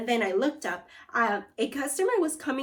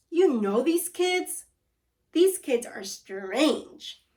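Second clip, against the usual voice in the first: slow; 3 semitones higher, 4 dB louder, much slower than usual. Acted. Wizard warns dad slowly.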